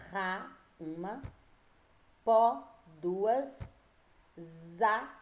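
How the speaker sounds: "ra", "po", "za" each said apart, with a count after; isolated syllables "ra... po... za", pausing between them. Shown as a demonstration. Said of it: "quantas sílabas eu tenho na palavra raposa".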